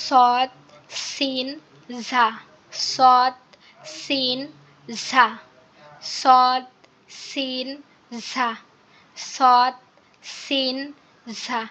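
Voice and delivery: সদ সিন ঝা with a hissing whistle; Arabic whistling letters. Shown as a demonstration. Teacher modelling hissing letters for the class. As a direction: let the air whistle through the teeth. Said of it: "শীর্ষের মতো উচ্চারণ হবে".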